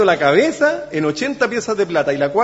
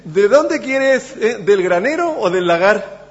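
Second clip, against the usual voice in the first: ironic; 3 semitones higher, slower than usual. Retold or imitated. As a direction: taunt with a drawn-out question as the king. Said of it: "irónico, porque le dice". (pregunta irónica y burlona, alargada)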